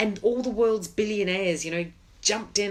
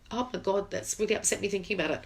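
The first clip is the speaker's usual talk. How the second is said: tearful; 4 dB quieter, faster than usual. Real, not acted. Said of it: "And I'm crying".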